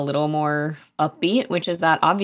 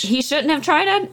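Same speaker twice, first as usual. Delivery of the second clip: pitched way up, teasing; high mocking echo; 11 semitones higher than usual. Real, not acted. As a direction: echo it in a squeaky tease.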